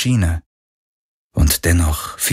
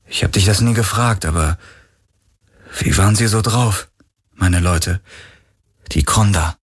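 put-on young man voice. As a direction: voice him tense and exasperated. Galen's voice.

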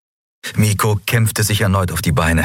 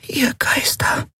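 tonlos gehaucht, viel höher; ehrfürchtig flüstern wie eine kleine Fee; 3 dB quieter, slower than usual. Acted. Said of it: "hauchte Nelen". (Nelen haucht erschrocken beim Anblick des Schädels)

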